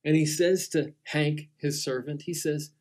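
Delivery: ordinary delivery, nothing marked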